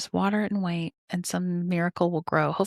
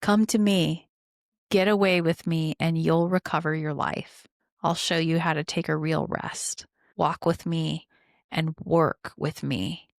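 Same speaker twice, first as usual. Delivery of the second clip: scripture reading. Acted. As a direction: read it slowly, easing off at the end. Reads scripture aloud.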